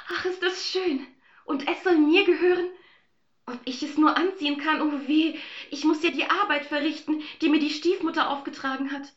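put-on high girlish voice, sad at the end. Aschenbrödel talking to herself, high girlish voice. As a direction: delight turning to sorrow. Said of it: "sprach Aschenbrödel traurig".

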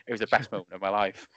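usual speaking voice

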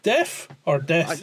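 slow, drawn-out Scottish vowels; lightly imitating a Scottish accent; mock Scottish accent. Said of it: "the last person that should be mocking an accent".

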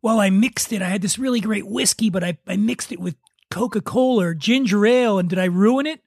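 half-hearted imitation of a guilty whisky mixer; mock worried drinker. Imitating people who ask him if they ruined their whiskey, lightly worried. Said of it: "when people say to me".

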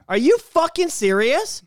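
surprised. Real, not acted. Shocked reaction to news.

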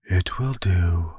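put-on slow whispered old witch; terse elder witch, slowly whispered; eldest sister. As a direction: breathe it slowly like a weary crone. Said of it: "said the eldest".

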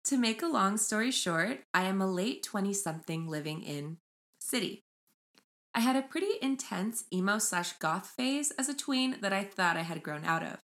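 measured read-aloud of a post title. Acted. Host reading Reddit title to co-host, measured read-aloud. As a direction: read it out evenly, like a headline.

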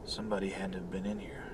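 hushed, fast whisper. Acted. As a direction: whisper it nervously under your breath. Whispered worry alone at home.

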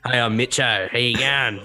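casual Australian accent with an O ending; Australian accent demo. Shown as a demonstration. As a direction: demonstrate an easy Australian greeting accent. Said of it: "just put O at the end".

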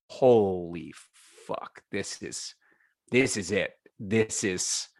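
slow, hushed, stunned realization; retold awe. Kid hearing a band for the first time, awestruck. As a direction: let it land slowly, with long pauses.

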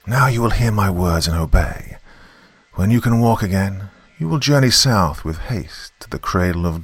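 put-on an old river god, distant as an echo; menacing giant snake, a hint of echo; ancient serpent voice. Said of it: "that sounded low and ancient".

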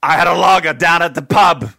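loud, hammed-up British accent. Host keeps goading co-host, hammed-up British accent. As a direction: do a bad British pub-goer, loudly. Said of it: "I was doing my British".

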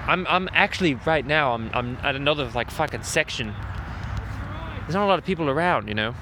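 speaking quietly so nearby people can't hear; keeping it down. Real, not acted. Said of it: "just enough away from all the people going by so they don't fucking hear me".

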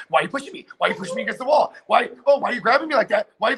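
rising mock distress; hammed-up mock victim; over the top victim. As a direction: act up the victim for the tape. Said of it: "detail everything over the top".

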